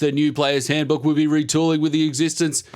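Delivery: fast, rising hyped ad announcer; ad read voice. Pretend. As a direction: sell it like a liquor store ad. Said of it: "You sound like a fucking Dan Murphy's ad".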